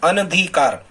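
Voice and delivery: अनधिकार said clearly with short first a, ən-dhi-kaar; teacher models अनधिकार for students to repeat; model answer, clearly said. Shown as a demonstration. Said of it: "क्या कहें आप?".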